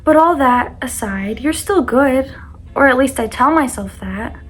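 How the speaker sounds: poem reading. Acted. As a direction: read it like a heartfelt poem. Reads her own poem aloud.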